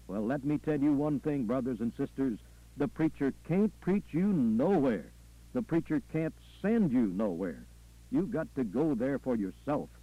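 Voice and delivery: lightly voiced Southern preacher, emphatic; preacher, admonishing. Preacher warning brothers and sisters to stand alone, admonishing. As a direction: hammer each warning home in parallel phrases.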